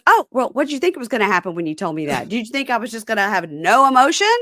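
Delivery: put-on high, fast, indignant girlfriend; lightly voiced angry girlfriend; mock girlfriend. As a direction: fire it back fast. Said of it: "And she goes".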